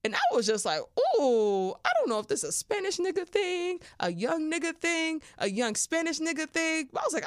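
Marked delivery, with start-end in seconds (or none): 0.8-6.9 much higher, breathless delight, voice pitched way up; giddy aroused squeal. Retold or imitated. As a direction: gush like you can't believe how good it feels. Acting her aroused reaction in bed.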